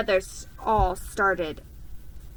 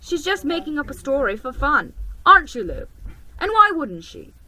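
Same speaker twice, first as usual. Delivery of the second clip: teasing brother; 6 semitones higher, 8 dB louder, faster than usual. A narrator's reading. Peter voiced in the story.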